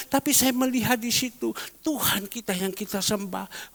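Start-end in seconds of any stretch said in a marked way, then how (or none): 1.8-3.7 reverent whisper. Acted. Reverent aside about God.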